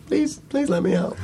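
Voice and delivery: very high, slow mock plea; put-on pitiful pleading, stretched out; imitated pleading boy. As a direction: beg like a trapped kid in a tiny high voice. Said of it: "then eventually he's like".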